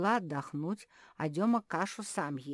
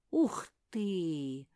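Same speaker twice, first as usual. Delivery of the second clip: squeal; 5 dB louder than usual. Acted. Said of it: "взвизгнула Зефирка".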